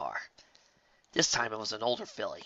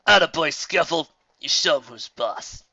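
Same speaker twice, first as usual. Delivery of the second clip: egging on; 5 semitones higher, 8 dB louder than usual. Acted. Bully cheering on brother.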